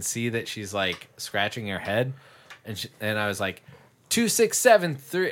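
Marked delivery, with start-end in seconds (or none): 4.1-5.3 prankish mock yell. Yelling the zip code at Mom as a prank, mock yell. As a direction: call it out as a teasing prank. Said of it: "I just yelled our zip code".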